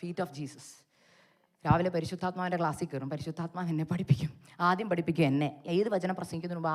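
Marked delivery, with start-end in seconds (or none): 0.0-0.7 soft reverent "Feet of Jesus"; "Feet of Jesus" softly, stressing "Feet"; quiet, weighty "Feet of Jesus"; reverent repeat. Shown as a demonstration. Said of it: "എന്താന്ന് പറയാം".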